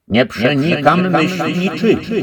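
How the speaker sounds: wysoko, głośno i dźwięcznie, obco brzmiąca głowa; dźwięczny, wyraźny głos. A narrator's reading. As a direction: zaczarowana głowa przemawia donośnie. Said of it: "dźwięcznym i wyraźnym głosem". (dźwięczny głos zaczarowanej głowy)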